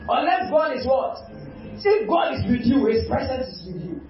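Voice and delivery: quoting Nicodemus with rising fervor; preaching at full force. Acted. Preacher voicing Nicodemus to Jesus, preaching fervently. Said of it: "So he said".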